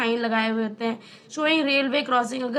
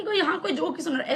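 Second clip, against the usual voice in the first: light laugh while telling a joke; laughing through the punchline; faster than usual. Shown as a demonstration. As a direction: tell it like a joke, chuckling through. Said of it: "तो ऐसे सुनाओ कि".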